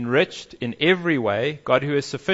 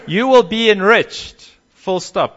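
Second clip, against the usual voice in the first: mock American accent; 7 semitones higher, 8 dB louder than usual. Preacher mocking prosperity teachers, in an over-the-top American accent. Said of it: "in an American accent".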